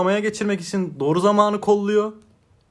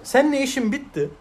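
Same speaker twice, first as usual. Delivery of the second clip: higher and louder, blunt and final; acted breakup line; 6 semitones higher, 4 dB louder than usual. Advising a friend how to break up, acted bluntly. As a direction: say it straight out like ending it.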